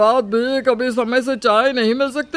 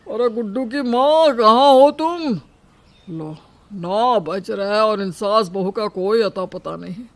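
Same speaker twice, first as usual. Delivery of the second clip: irritated calling out; 4 semitones higher, 7 dB louder than usual. Acted. Husband calling sleeping wife to make tea, irritated and loud. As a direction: call loudly through the house, annoyed.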